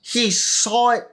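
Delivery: incredulous rise. Acted. Mocking Trump's excuse.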